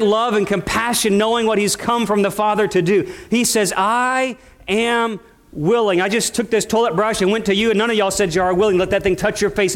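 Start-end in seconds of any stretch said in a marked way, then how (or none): 3.8-6.0 slow tender. Acted. Jesus speaks to the leper.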